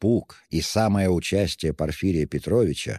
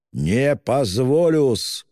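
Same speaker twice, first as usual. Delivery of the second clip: higher, louder, slow furious shout; 7 semitones higher, 5 dB louder, much slower than usual. A narrator's reading. Raskolnikov shouting at the investigator, slow furious shout. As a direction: bang the words out with rage. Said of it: "крикнул он вдруг".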